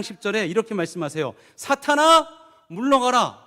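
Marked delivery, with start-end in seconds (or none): 1.6-2.3 loud, stern command to Satan; a booming rebuke. Acted. Jesus rebukes Satan, quoted. 2.7-3.4 a stern, loud 물러가라 with a falling end; 물러가라 said as a firm falling command. Shown as a demonstration. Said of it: "에게?".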